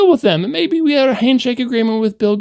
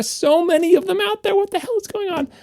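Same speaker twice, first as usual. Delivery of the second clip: exasperated rant; 10 semitones higher, 3 dB quieter than usual. Real, not acted. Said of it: "I'm so angry".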